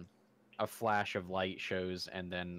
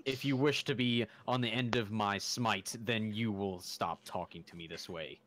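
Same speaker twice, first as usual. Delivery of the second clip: lightly voiced haughty deity; a touch of stern, measured grandeur; divine being. Divine being warning a mortal about his smite, mildly imperious. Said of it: "I did my best to make a divine".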